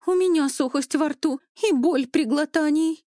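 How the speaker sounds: frightened cry. A narrator's reading. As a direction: blurt it out in fear. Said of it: "испуганно воскликнула". (скандалистка испуганно восклицает о симптомах, выше и громче)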